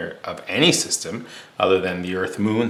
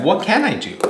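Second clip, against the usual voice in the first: higher-pitched, direct question; asking aloud; 10 semitones higher than usual. Acted. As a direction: put the question to the man, pitched up. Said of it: "And he asks that".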